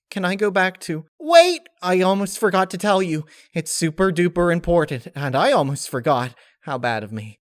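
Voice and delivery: high, loud sudden exclamation; very high flustered spirit voice; flustered Laughter. Acted. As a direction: blurt it like you nearly forgot.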